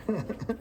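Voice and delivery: short, soft chuckle; gleeful chuckle. Real, not acted. Mechanic delighted by the carnage, chuckling. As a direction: chuckle quietly with relish.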